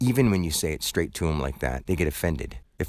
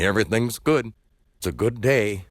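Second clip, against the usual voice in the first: mock-chipper customer-service voice; fake cheerful; 3 semitones higher than usual. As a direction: smile through a lie. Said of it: "just put on a smile and lie and say".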